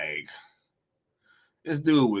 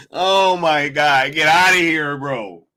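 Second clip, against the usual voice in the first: exasperated; 4 dB louder than usual. Real, not acted. Reacting to the absurd tweet.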